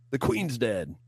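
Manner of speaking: badly faked British accent; mock British accent. Host joking about the Queen, mock British accent. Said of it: "I'm a British guy".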